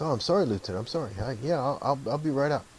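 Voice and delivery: lightly acted apologetic firefighter, eager to comply; apologetic, imitated. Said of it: "one of the firefighters apologized".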